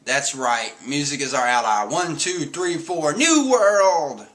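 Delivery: a rock star count-in rising to a yell; Brook's excited shout. Retold or imitated. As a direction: hype the crowd into the count-in. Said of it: "then he's like".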